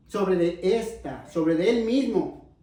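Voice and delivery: slow correction, weight on "esta" and "él"; deliberate emphasis on "esta", falling end; stress on "esta". Shown as a demonstration. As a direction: spell out the point slowly, leaning on "esta" then "él".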